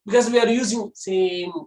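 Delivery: ordinary talk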